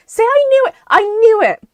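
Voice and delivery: vindicated shout. Real, not acted. Gamer complaining about rigged drops, triumphant shout. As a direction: crow that you were right.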